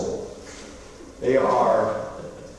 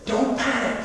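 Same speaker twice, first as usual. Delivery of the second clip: calm grandfather; 9 semitones higher than usual. Retold or imitated. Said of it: "looks at my grandmother".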